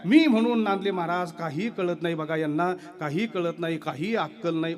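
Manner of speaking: loud hammed-up wife griping about husband; self-pitying village wife, mocked; mock complaining wife. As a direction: parody a wife's martyr complaint. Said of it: "जसं आपल्याकडच्या बाया म्हणतात ना".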